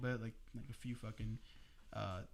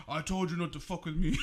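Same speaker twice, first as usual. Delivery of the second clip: loud, higher gloating punchline; retold taunt; 6 semitones higher, 9 dB louder than usual. Cousin to him after the prank, retold gloating. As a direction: crow it as the prankster, breaking into laughter.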